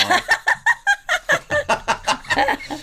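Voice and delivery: squealing burst of laughter; high-pitched laugh. Real, not acted. Laughing at own mistake.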